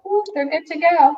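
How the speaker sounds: ride operator voice. Retold or imitated.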